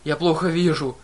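loud angry roar; growl. Acted. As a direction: bellow it in rage. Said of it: "прорычал он".

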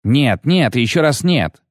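high roar of refusal; roaring tyrant king. A narrator's reading. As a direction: bellow it, fist on the table. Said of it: "взревел король Хенсельд".

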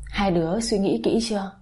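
usual speaking voice

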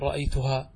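رأيتها ending on an open "haa"; stop keeping alif. Shown as a demonstration. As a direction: keep the final aa of رأيتها at the stop. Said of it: "قف عليه، تقول".

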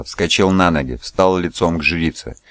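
plain reading voice

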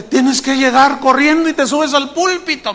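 imitating someone hustling the preacher along; hurried organizer. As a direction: act out a rushed host giving instructions. Hurried organizer giving orders.

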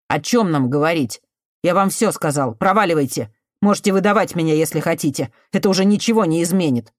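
put-on resentful cornered boy telling her to leave; bitter youth. Artemiy pushes her away.

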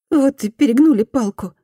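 "перегнули" stressed, sentence falls; repentant woman. Acted. Woman's quote, Fumi repeats.

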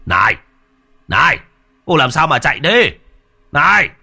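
high, loud shout after someone running away; calling out. Acted. Tuấn calls after the running woman, shouting loud and high.

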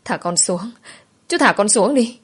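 mild, acted fearful protest; frightened cry. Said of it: "Tôi gào lên trong sợ hãi".

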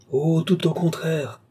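high, drawn-out gleeful retort; triumphant outcry, stretched out; angry triumph. A narrator's reading. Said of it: "heureuse comme on l'est dans la colère".

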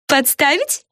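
high, delighted rising question; high voice, gleeful; joyful echo. A narrator's reading. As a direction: repeat the word with glee. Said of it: "радостно повторила Яна".

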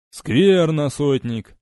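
a touch of stern displeasure; lightly voiced stern officer; displeased. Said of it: "недовольно нахмурился легат".

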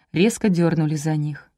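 ordinary delivery, nothing marked

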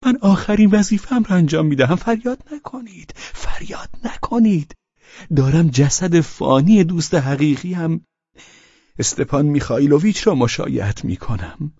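high-pitched, sly put-on voice; mocking. A narrator's reading. Pavel in the funeral carriage answering Velchaninov, mocking. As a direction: taunt him with false solemnity, pitched high. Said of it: "با لبخندی تمسخرآمیز گفت".

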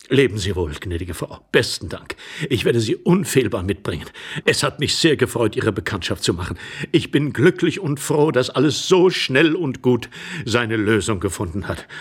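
grateful courteous gentleman. Acted. Intruder saying farewell to the lady, courteous. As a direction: take leave with earnest thanks.

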